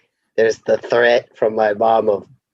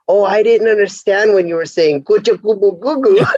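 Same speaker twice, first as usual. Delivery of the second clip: mocking baby talk; 8 semitones higher than usual. Parent teasing daughter for baby voice, mocking. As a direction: play innocent, then babble in a put-on baby voice. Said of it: "she's using her baby voice".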